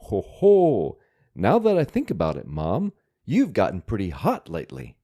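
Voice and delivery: a lightly voiced cheeky boy teasing his mom; cheeky kid voice. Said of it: "we might translate this panel as".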